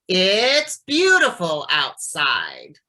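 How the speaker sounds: "It's beautiful outside" slow, "beautiful" rising; intent with intonation. Shown as a demonstration. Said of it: "So I'm gonna do just the first three here".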